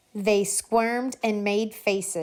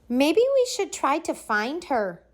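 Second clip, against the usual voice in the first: put-on hopeful kids; 7 semitones higher than usual. A narrator's reading. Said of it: "they said".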